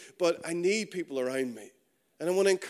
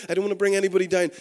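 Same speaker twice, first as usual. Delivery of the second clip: rattled off quickly, a little raised; quoted excuse; 3 semitones higher, 5 dB louder, much faster than usual. Retold or imitated. Preacher quoting an attitude he hates, rattled off quickly. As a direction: reel off the excuse fast.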